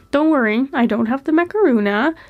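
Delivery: real heavy cold in the voice; stuffy voice. Real, not acted. Voiceover telling viewers they fell ill, stuffy with a cold. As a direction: talk through a stuffed-up head cold. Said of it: "you're just hearing my stuffy voice".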